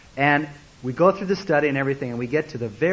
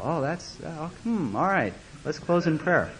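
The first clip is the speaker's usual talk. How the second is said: halting, muted acted reaction; mildly embarrassed hemming; awkward; 5 dB quieter than usual. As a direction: fumble for words, then move on. Acts the awkward reaction again.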